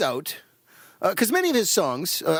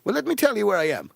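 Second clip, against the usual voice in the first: lightly put-on British accent; a hint of a comic British accent; 3 semitones higher than usual. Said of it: "that's my British accent".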